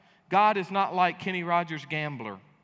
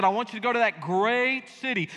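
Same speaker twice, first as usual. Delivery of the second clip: booming God voice; 4 semitones higher, 4 dB louder than usual. Retold or imitated. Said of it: "And God said".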